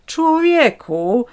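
high, slow stretched astonishment; wide-eyed surprise. A narrator's reading. Woman stunned by the vagrant, slow high astonished call. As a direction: drag the word out in disbelief. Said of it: "powiedziałam szeroko, wytrzeszczając oczy z zaskoczenia".

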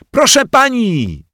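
high, loud call to the teacher; child calling out. Acted. Bodzio calls out to the teacher as she walks in, loud. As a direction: shout for the teacher's attention. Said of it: "krzyknął Bodzio".

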